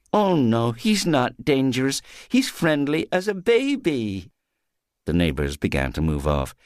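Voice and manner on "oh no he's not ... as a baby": high, overbright tipsy reassurance; drunken reassurance. Acted. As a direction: wave off the frightened neighbours. Dronken Polly tegen buren.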